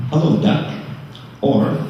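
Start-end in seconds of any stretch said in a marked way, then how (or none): 0.1-0.7 lightly imitated fond hello, pitched higher; fond greeting. Son quoting Mom's pet greeting at her memorial, fondly. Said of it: "She would fondly say".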